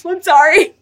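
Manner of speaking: high, laughing through the words; laughing apology. Real, not acted. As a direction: giggle out a sorry. Laughing apology after joke.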